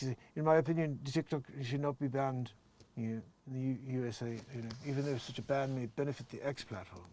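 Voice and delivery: lightly voiced Elon Musk, close to own voice; a hint of a halting tech mogul; Elon Musk impression. Reading Elon's TikTok post in a light Elon voice. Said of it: "that's my best Elon Musk impression".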